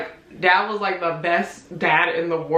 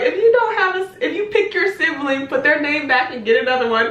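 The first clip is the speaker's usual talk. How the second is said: higher instructing voice; imitating aunt; 6 semitones higher than usual. Aunt explaining Secret Santa, higher bossy voice. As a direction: lay out the game rules. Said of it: "She was like".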